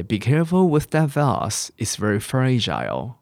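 "vase" as vahz, "fragile" as FRA-jile; British pronunciation. Shown as a demonstration. Teacher repeating the example sentence, British "vase" as vahz. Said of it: "vase是英国人的念法".

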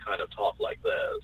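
droning flat monotone demo; a sleepy monotone drone. Shown as a demonstration. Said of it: "with a monotone voice".

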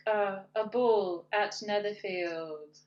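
slow, bored drone. Retold or imitated. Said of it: "she does it in the most bored voice possible".

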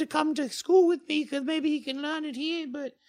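put-on high, plaintive girl voice; teary schoolgirl. Schoolgirl explaining why she was mad at friends, teary and high. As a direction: plead it out, close to tears. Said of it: "her eyes kinda get teary".

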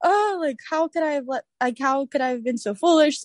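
retold dismay, starting high and falling; embarrassed self-reproach. Woman recalling her fainting, mock-dismayed at her own foolishness. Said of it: "It was just instant embarrassment".

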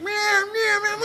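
high cat meows; mock meowing. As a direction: meow like a cat. Imitating cat noise.

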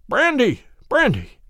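loud, high desperate gasping for brandy; dying man gasps for brandy, loud and high; gasped cry. Acted. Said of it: "he gasped".

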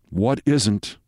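ordinary delivery, nothing marked

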